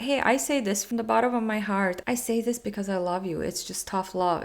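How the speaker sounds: a hint of preachy fake warmth; mock fake sincerity. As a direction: parody someone faking heartfelt tough love. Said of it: "but pretending that".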